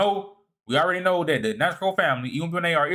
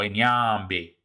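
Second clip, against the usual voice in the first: "Nyambe" with the N sounded up front; emphasized name; 4 semitones lower than usual. Shown as a demonstration. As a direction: stress "Nyambe", leaning on the name. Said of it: "They put emphasis on it".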